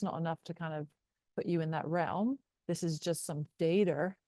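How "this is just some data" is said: robot voice. Acted. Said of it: "I should talk like a robot now".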